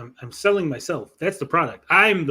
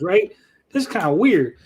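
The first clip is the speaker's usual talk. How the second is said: raised, lightly put-on Southern accent; Southern white guy; 4 semitones higher, 4 dB louder than usual. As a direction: remark like a baffled Southern tourist. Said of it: "Southern white guy voice".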